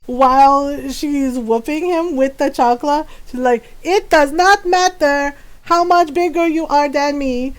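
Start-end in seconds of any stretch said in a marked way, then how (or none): 3.8-7.5 scolding mom. Retold or imitated. Mother scolding while whooping.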